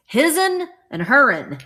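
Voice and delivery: drawn-out country Southern dialect. Acted. Reading a shaker label aloud, Southern dialect. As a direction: say HIS'N and HER'N in a slow Southern drawl. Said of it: "talk like this in Arizona".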